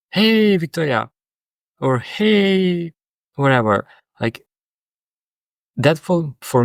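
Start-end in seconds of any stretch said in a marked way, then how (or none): 0.1-1.1 much higher, gushing "Hey, Victoria"; over-the-top greeting. Retold or imitated. Client mocking a greeting that feels too much, high and gushing. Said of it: "I'm not saying". 2.0-2.9 much higher, stretched "Hey"; over-the-top hey. Retold or imitated. Client mocking an over-eager greeting, very high. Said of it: "I'm not saying".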